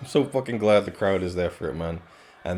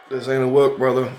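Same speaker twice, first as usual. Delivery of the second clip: loud; 4 semitones higher, 6 dB louder than usual. Real, not acted. Wrestling catchphrase after choking.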